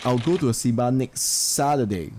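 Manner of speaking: "Saturday" prominent at the end; stress on Saturday. Shown as a demonstration. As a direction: save the weight for "Saturday". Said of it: "So the focus is on Saturday".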